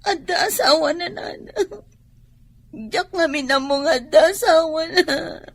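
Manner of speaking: tearful, breaking voice; crying. Acted. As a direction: weep as you admit it. Daughter confesses father is married.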